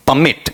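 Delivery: "परमिट" as puh-MIT, stress at the end; verb pronunciation. Shown as a demonstration. Teacher showing how the verb is read, verb pronunciation. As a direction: shorten the first syllable of "परमिट", land on MIT. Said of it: "इस तरीके से".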